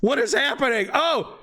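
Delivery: high, startled outcry; surprised. Real, not acted. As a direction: blurt in disbelief. GM shocked at player action.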